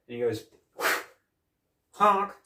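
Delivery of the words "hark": high, loud mock honk; imitated honk. Co-host retelling Chosen's sparring prank, imitated honk. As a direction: burst out a mimicked honk. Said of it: "He does the same thing to him".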